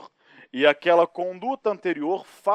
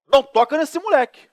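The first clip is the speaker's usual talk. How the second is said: mais alto e agudo; loud warning; 10 semitones higher, 11 dB louder than usual. Retold or imitated. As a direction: proibir com força. Warning wife again. (aviso alto para não tocar no menino)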